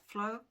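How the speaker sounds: FLORIDA in three separate beats, Flo, ri, da; split into syllables. Shown as a demonstration. Teacher showing learners three syllables, split into syllables. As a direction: pause between each syllable of FLORIDA. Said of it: "Then you have three syllables".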